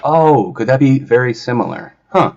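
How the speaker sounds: sarcastic feigned surprise; mock realisation. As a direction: pretend it is just dawning on you.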